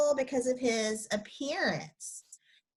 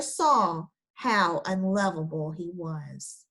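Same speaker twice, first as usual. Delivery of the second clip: put-on storybook read-aloud for kids; story reading. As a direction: read it like a bedtime picture book for the class. Teacher reads a picture book aloud.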